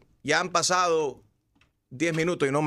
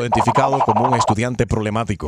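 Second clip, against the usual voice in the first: lightly done automated recording; phone menu voice; 2 semitones lower than usual. Acted. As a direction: read it like a robocall message. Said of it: "llamada automatizada".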